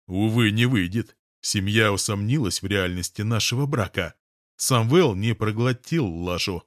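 usual speaking voice

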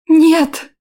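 high loud anguished scream; piercing scream. Acted. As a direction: scream no in horror. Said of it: "закричала я".

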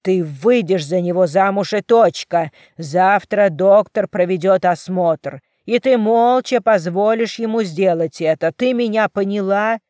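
loud, cold commanding. Acted. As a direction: order her, no room to argue. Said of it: "Его голос был холодным". (холодный приказ отца, громко)

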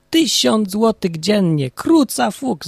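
slow, high, amazed outcry; old shepherd shouting in amazement; astonished exclamation. Acted. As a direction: gasp it out in disbelief. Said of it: "Zawołał baca".

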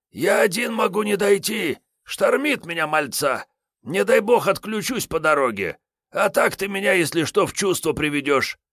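put-on high-pitched scornful old tramp; boozy stalker Kiryay. Wounded Kiryay brushing off Sergey's help, scornful. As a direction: wave off the fuss, hungover and rude.

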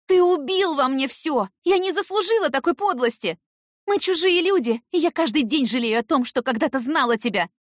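high, loud, bitter shouting; anguished fury. A narrator's reading. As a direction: cut him off forever. Heroine renouncing Eric.

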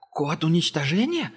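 high, startled captive echo; frightened echo. A narrator's reading. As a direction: repeat it in fright. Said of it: "испугался Ангел".

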